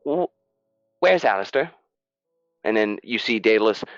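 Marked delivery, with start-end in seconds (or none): 0.0-1.7 high fussy merchant. Acted. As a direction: purr it like a smug little shopkeeper. Niven greets Daedalus.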